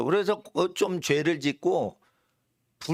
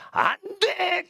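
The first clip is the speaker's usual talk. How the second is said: high, slow, drawn-out cry of refusal; emphatic prohibition; much slower than usual. Acted. Preacher proclaiming each banned sin to the congregation, emphatic prohibition. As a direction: stretch the ban out at a high pitch.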